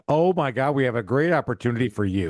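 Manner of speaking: hammed-up eagerness to sign a client; exaggerated sales gush; gushing mock excitement. Mock receptionist thrilled by injury.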